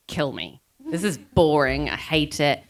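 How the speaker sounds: low, deadpan mock despair; bored misery. Rider retells hating a beautiful road climb, mock bored misery.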